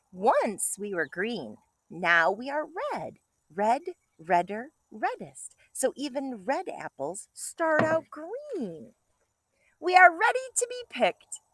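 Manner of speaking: bright storybook read-aloud; reading to children. Acted. Teacher reading a picture book to kindergartners, bright and lively.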